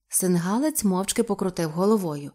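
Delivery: ordinary delivery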